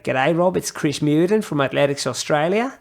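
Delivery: imitating an Australian official on the phone; Australian accent. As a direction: put on an Aussie accent for the caller. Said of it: "I'll stop the accent now".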